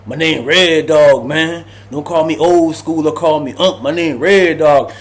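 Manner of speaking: lightly voiced old man demanding respect; old cellmate slowly insisting he's called Red Dog; touchy insistence. Old cellmate insists on his name.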